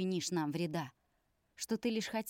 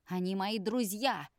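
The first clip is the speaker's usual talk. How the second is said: shouted; 2 semitones higher, 4 dB louder than usual. Acted. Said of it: "крикнул покрасневший Алексей".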